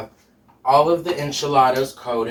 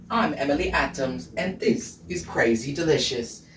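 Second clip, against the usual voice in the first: lightly imitated cooking show host; light impression of a TV host's introduction; Emily Adams; 3 dB quieter than usual. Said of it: "I feel like I sound like her".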